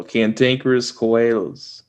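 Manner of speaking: slow Australian "ko-ay-las"; Australian accent. Pretend. Cohost names the episode title, playful Australian. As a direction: announce it with an Australian vowel.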